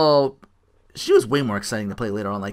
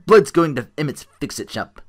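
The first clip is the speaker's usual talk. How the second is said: put-on Charles Bronson accent; 2 semitones higher, 4 dB louder than usual. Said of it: "get that weird Charles Bronson accent".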